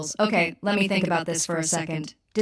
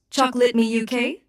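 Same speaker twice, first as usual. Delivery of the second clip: attempted British accent; 3 semitones higher than usual. Shown as a demonstration. Assistant obliging a user's request, attempted British accent. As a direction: try a British accent on "Chocolate me U K", pitched up. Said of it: "my best attempt at a British accent".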